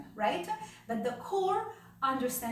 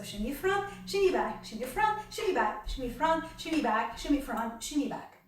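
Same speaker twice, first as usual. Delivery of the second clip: rhythmic counting cues. Shown as a demonstration. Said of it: "Or I could do shimmies in both directions".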